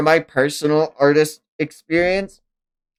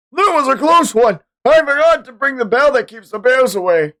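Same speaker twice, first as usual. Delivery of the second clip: lightly voiced character; 13 semitones higher, 5 dB louder than usual. Reading comic character's line.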